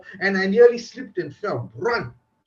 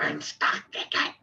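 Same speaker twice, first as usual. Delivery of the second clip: whispered, lower aside; horrified whisper; 6 semitones lower, 4 dB quieter, slower than usual. Retold or imitated. Naked guest realizing people are filming him, horrified whisper. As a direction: hiss it to yourself in shock.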